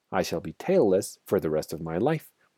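plain

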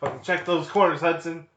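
high, barking, yelled drill-sergeant voice. Retelling how a sergeant character yells at a soldier: imitating a yelling Marine sergeant. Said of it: "yelling at him".

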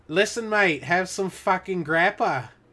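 put-on loud, high Australian accent, sounding like a local. Retelling what Australians say when offering a drink: imitating Australians. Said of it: "They're like".

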